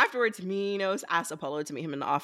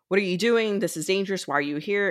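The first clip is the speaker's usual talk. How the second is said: raised pitch at the start, lightly acted scold; mild retold scolding; 4 semitones higher than usual. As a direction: imitate a worried telling-off, without full force. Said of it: "he scolds her, and he freaks out".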